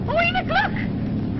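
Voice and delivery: high, slow, thrilled exclamation; excited wonder. Acted. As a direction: gasp it out in delight. Amazed at the Statue of Liberty.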